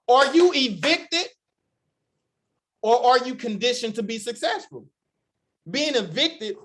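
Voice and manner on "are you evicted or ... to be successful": preaching emphasis. Real, not acted. Preacher challenging the crowd.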